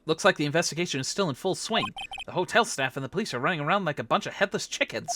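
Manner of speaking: low, soft observation; subdued investigator thinking aloud; musing lawyer. Acted. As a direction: take in the scene quietly.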